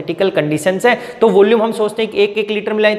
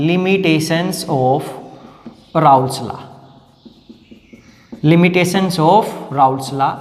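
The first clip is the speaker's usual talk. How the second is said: very slow, heading read out for copying; slow dictation; 4 semitones lower, much slower than usual. Shown as a demonstration. Teacher dictating the next heading to the class, very slowly. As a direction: dictate the title word by word.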